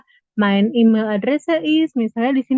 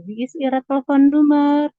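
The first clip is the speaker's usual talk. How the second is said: modeled German question; 5 semitones higher, 5 dB louder than usual. Shown as a demonstration. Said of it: "kita bisa pakai nih".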